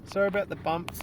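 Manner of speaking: talking over a rough ride; on a bumpy road. Real, not acted. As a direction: voice jolted by bumps. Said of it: "It's very bumpy".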